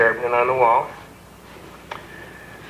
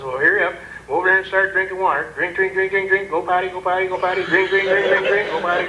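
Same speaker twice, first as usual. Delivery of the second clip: higher, rapid chanted orders; urgent coaching; 5 semitones higher than usual. Retold or imitated. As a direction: drill him like a coach. Coaching drunk inmate.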